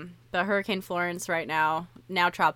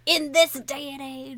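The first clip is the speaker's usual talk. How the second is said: incredulous; 7 semitones higher than usual. Retold or imitated. Incredulous quote of herself.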